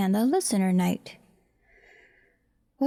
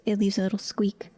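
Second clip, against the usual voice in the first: whisper. Real, not acted. Careful task, hushed while working.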